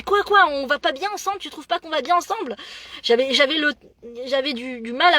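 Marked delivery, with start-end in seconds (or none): 0.0-2.5 higher, lightly voiced friend, insistent; mock-indignant friend. Friend insisting they look good together, mock-indignant. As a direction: demand agreement, feigning offence. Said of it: "Elle me dit".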